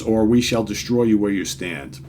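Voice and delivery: loud, commanding Avengers threat; dramatic comic reading. Acted. Reading the heroes threatening the demons, loud and commanding. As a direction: boom it like a superhero warning.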